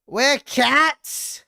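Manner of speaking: very high, loud cry of disbelief; astonished shout. Real, not acted. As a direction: shriek it in amazement. Discovers player is a cat.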